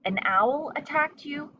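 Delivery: high, astonished question; can't believe her ears. A narrator's reading. Mother Bat asks.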